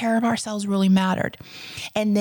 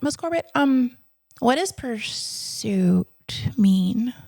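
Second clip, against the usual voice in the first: put-on hesitant child quote; 3 semitones higher, slower than usual. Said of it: "I was all of eight years old".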